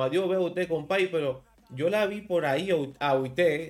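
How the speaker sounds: Cibao accent. Shown as a demonstration. Host shows guest how the north talks, Cibao accent. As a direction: demonstrate Cibao speech, i sound in "usted". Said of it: "Hablan con la I".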